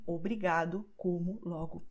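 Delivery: obrigado, como, logo ending in u; final o as u. Shown as a demonstration. Teacher showing that final o sounds like u. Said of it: "be pronounced as U".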